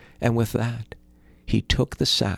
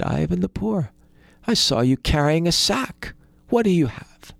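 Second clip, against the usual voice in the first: higher, different voice, nosy greed; greedy rich brother; 8 semitones higher than usual. Acted. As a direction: sniff around for his brother's secret.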